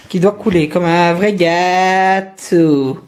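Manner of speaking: slow, drawn-out crazy voice. Acted. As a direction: stretch it out like a madman. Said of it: "je prends ma voix de, de fou".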